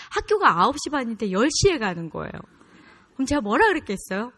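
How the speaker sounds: ordinary talk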